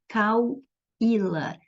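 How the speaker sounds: "Cauíla" slowly split as cau-í-la; slow syllable-division demo of "Cauíla". Shown as a demonstration. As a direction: draw out "Cauíla", pausing after "cau". Teacher divides word into syllables.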